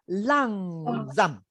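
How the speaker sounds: langsam with the ending coming down; falling end. Shown as a demonstration. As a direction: let langsam fall at its end. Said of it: "The last part must come down".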